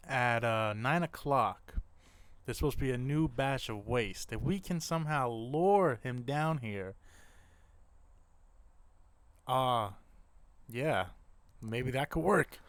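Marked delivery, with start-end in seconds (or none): 2.5-12.6 talking around a bone in mouth. Real, not acted. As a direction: speak with a bone in your mouth. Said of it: "I got a bone in my mouth".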